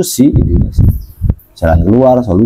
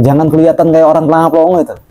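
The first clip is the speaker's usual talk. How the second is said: fast, higher rushed warning; hurried warning; 6 semitones higher, much faster than usual. Acted. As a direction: rush the scolding out. Warning a gawking santri.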